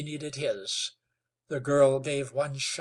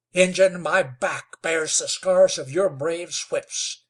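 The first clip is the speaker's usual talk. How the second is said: hissed; 3 semitones higher, 8 dB louder than usual. Acted. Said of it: "hissed Wetzel".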